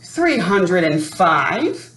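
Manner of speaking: slow, proud announcement. Acted. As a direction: spell out "Three hundred and five" slowly and proudly.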